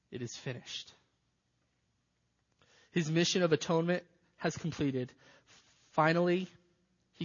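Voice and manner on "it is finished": barely voiced, much softer and lower; dying last words, faint and breathless; tortured whisper. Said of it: "little more than a tortured whisper".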